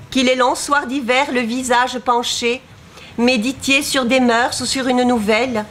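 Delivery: measured, lightly lyrical verse reading; poetry read aloud with even phrasing; poem recitation. Acted. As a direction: recite line by line, pausing after each verse.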